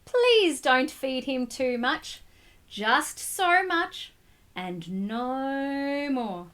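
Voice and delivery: very slow, deliberate grown-up voice; Mister Carp warning. Acted. Mister Carp warning the boy about feeding, slow deliberate warning. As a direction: lay down the rule slowly. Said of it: "said Mister Carp".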